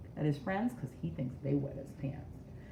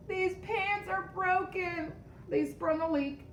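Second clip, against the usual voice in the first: dramatic reveal; 12 semitones higher than usual. Acted. Dramatic reveal of broken pants.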